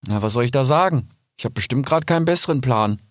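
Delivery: put-on young fox Rix. Rix answers Kipp. (verwirrter junger Fuchs, höher)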